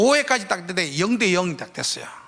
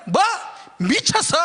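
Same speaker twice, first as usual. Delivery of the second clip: indignant retort; 10 semitones higher than usual. Retold or imitated. Coach arguing with umpire.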